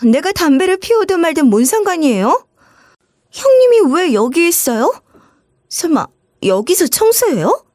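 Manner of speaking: sister-in-law caught smoking, flustered and annoyed; flustered anger. Acted. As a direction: snap back, embarrassed and rude. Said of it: "얼굴이 시뻘개진 채로 이러는 거예요".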